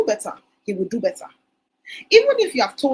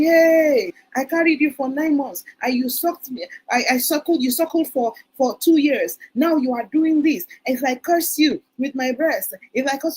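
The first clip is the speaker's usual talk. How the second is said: a hint of an emotional mother scolding her child; imitating an emotional African mother scolding her teen son; mock angry mother. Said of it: "We are constantly".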